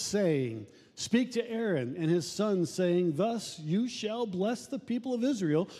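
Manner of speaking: solemn reading of the blessing; scripture reading. Acted. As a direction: read it out like holy writ, measured. Reads scripture aloud.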